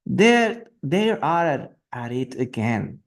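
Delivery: shouting the line out to the king; read as a shout. Acted. Teacher reading the messenger, mildly shouted. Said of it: "she simply shouted at the top of his voice".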